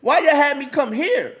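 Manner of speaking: complaining to the workers why he had to come here, exasperated; incredulous complaint. Retold or imitated.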